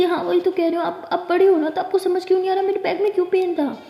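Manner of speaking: put-on girl pleading in exasperation; exasperated insisting. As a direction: push it, she won't get it.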